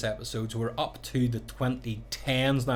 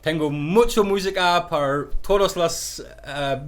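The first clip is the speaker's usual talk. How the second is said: put-on slow, halting tourist Spanish with a Ballymena accent; broken Spanish; 3 semitones higher, slower than usual. DJ greeting Spanish guests over the microphone, in broken Spanish. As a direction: announce in Spanish, slowly and haltingly. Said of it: "probably very broken Spanish".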